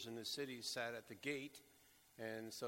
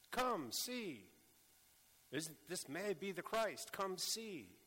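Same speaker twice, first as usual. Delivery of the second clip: high, bright call to come and see; eager invitation; 5 semitones higher, slower than usual. Acted. Voicing the woman's invitation.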